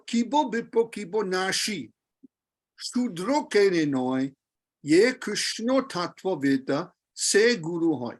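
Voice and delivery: "nashi" and "shudro" with sh. Shown as a demonstration. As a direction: model the verse with sh sounds. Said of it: "the S is pronounced as sh".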